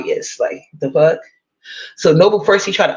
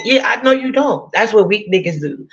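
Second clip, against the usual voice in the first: sarcastic comeback; 5 semitones higher than usual. Real, not acted.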